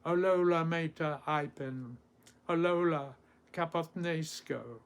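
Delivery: measured Ancient Greek verse with pauses; poem recitation. Acted. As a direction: recite it through, lifting the cries.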